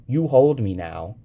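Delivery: put-on high, loud little-girl command; child's order. A narrator's reading. Sybil to the young man in the water, ordering. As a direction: insist on being held. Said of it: "Sybil ordered".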